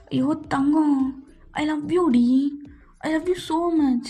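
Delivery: slow, drawn-out sweet talk; lovesick, stretched-out cooing; cooing endearment. Acted. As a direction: croon love at a crying captive. Captor cooing love at crying captive.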